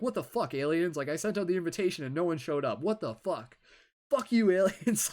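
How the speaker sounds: high, loud mock outrage at no-shows; exasperated yell at aliens. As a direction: throw a hammed-up tantrum at the sky. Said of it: "you're like".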